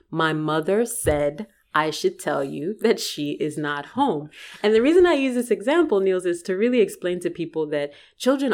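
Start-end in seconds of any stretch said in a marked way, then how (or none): 0.1-4.3 slow, deliberate "My mother said I should tell you that she is not home"; very emphatic. Retold or imitated. Child at the door relaying mother's lie to visitor, "she is not home" said emphatically. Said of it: "says very emphatically".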